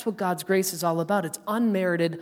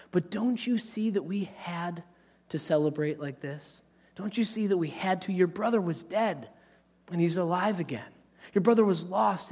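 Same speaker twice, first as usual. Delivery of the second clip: tender father. Retold or imitated. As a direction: plead gently with a hurt son. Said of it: "he says".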